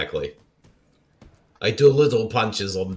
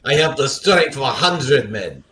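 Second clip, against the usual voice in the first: put-on Russian accent; 3 semitones higher than usual. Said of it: "Your Russian accent".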